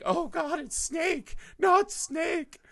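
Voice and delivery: high panicked squeal, rising to a shout; panicked guard. Retold or imitated. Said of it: "All the guards are, like, quaking".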